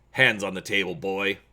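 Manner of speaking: spiteful command. Acted. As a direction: give the order with a spiteful edge. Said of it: "the general commands".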